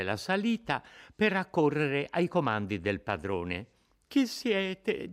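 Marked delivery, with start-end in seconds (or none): 4.1-5.1 high, anxious frightened question. A narrator's reading. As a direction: ask it with rising panic. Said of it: "domandava con ansietà Lucia".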